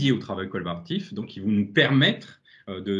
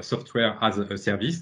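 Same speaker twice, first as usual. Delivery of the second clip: French accent in English. Real, not acted. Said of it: "désolé pour mon accent anglais".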